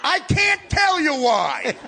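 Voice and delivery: slow, loud, high shouted insistence; screaming at wife. Retold or imitated. Cop on the phone refusing to explain, slow shout. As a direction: drag it out and yell it. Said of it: "I hear the guy screaming at his wife".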